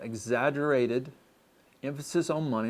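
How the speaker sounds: exaggerated drawn out slowly; slow, deliberate repeat. Shown as a demonstration. Pastor repeating point ten to the church, slowly. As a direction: lay each word down slowly for emphasis. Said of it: "Again, number ten".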